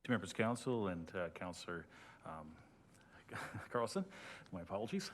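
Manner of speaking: muffled behind a face mask; through a face mask. Real, not acted. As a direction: speak slightly dampened, as through a mask. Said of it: "I'm not used to speaking through a mask".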